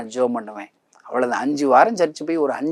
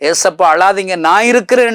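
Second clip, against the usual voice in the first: impassioned cry; 5 semitones higher, 7 dB louder than usual. Acted. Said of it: "இந்த கணேசனை போன்று".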